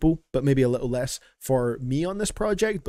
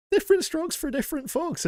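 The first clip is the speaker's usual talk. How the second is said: strokes said far higher with a punch; emphasized strokes; 13 semitones higher than usual. Acted. Streamer defending a phrase to chat, emphasizing strokes. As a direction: lean hard on the word strokes, much higher. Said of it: "I don't like how you emphasize strokes".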